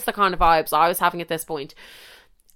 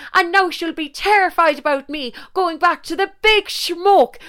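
put-on high, outraged country-girl accent; high-pitched indignant country accent; mock country accent; 8 semitones higher than usual. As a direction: scold in a hammed-up country accent. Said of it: "We're giving her one for the story".

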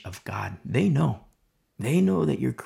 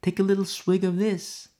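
seductive tempter; 6 semitones higher than usual. Retold or imitated. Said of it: "they're gonna seduce".

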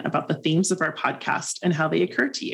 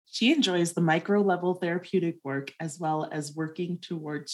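softer, even read-aloud; scripted guest bio; 7 dB quieter than usual. Acted. Co-host continues the therapist's introduction, soft scripted read. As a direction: read the bio steadily and quietly.

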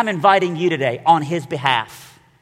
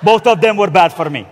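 angry dad; 4 semitones higher, 7 dB louder than usual. Retold or imitated. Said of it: "my dad was like".

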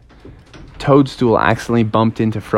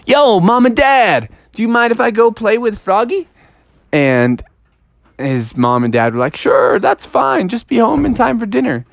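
put-on high kid toad voices; 8 semitones higher than usual. Kid asks parents, parents answer.

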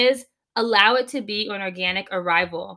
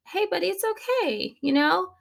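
soothing parent; 3 semitones higher than usual. Retold or imitated. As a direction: coax a sulking toddler kindly. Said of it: "You are gonna look at that child and go".

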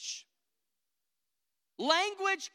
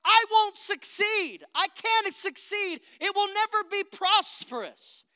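whiny inner voice; 8 semitones higher, 4 dB louder than usual. Pretend. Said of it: "Your inner voice will say".

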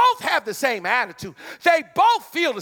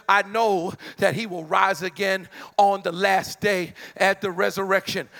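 putting stank on it; 4 semitones lower than usual. Acted. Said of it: "I know I'm putting stank on it".

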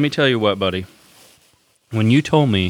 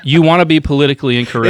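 fast and louder, with a laugh breaking through; 4 semitones higher, 6 dB louder, faster than usual. Real, not acted. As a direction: rush it out while laughing at your own joke. Joking about political incorrectness.

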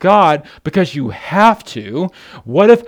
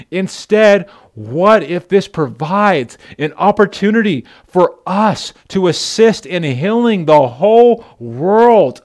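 rising sermon climax, each phrase drawn out; preaching at full force; 2 semitones higher than usual. Acted. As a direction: lift the church up to the big question. Preaching climax, slow and loud.

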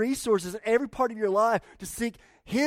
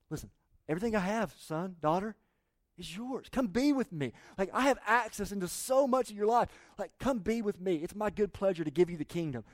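voicing God tenderly; 3 dB quieter than usual. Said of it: "God's posture".

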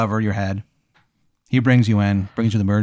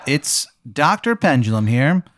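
breezy doctor; 2 semitones higher than usual. Acted. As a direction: draw out the greeting like a party guy. Voices the doctor answering.

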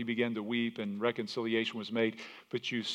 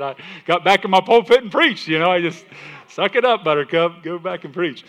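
ungracious pastor; 6 semitones higher, 11 dB louder than usual. Retold or imitated. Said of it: "he wasn't real gracious".

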